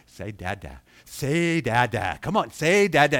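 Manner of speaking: patient, slow parent prompting that grows insistent; drawn-out coaxing, rising in volume. Acted. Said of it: "you might be trying to say".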